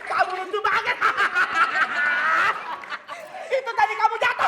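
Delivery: talking through laughter; giggling between words; laughing. Real, not acted. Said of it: "Kakak saya bisa ketawa sekarang".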